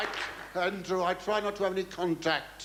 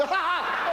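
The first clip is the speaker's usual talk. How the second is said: maniacal laugh; 5 dB louder than usual. Acted. Mad villain cackle.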